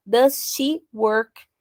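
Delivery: slow whispered "Does she work". Shown as a demonstration. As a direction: breathe the question out slowly. Drilled example, whispered. (sussurrado e lento)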